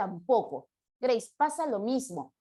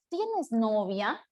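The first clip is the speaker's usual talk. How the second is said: slow dictation; much slower than usual. Shown as a demonstration. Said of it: "comenzamos con una mayúscula".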